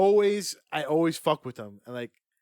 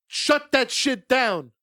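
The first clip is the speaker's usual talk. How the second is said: slow laughing shout, louder and higher; mock shout; 6 semitones higher, 5 dB louder, much slower than usual. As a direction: bark it at the scammer through laughter. Yelling back at phone scammer.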